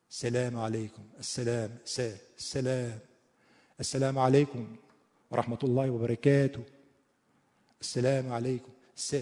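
Arabic greeting with a tinged toward e; Arab-accented salaam, demonstrated. Shown as a demonstration. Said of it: "عرب وقتی که میاد میگه".

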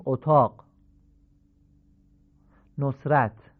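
اتاق as "otaagh", نصرت as "nosrat"; Persian damma. Shown as a demonstration.

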